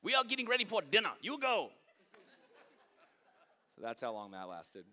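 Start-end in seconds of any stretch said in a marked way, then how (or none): 0.0-1.7 high, fast put-on Asian accent, shooing him out; a hammed-up Asian accent, hurrying him off; the owner sends him off before dinner, mock Asian accent. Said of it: "That's what it sounded like".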